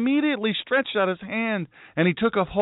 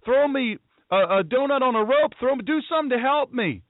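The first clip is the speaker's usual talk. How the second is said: mock panicked plea; 5 semitones higher than usual. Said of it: "doesn't say he did".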